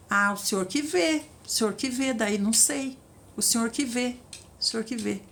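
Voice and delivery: mild, limp, resigned whine; passive bride. Pretend. Passive bride deferring to the Lord, mild whine. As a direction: hand every decision back, meekly. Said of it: "quem é que gosta de uma pessoa passiva dessa".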